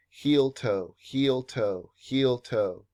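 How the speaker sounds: "heel toe" as an even repeated two-beat step; rhythmic foot demo. Shown as a demonstration. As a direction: chant "heel toe" in steady, separate pairs. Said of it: "rolling from heel to toe".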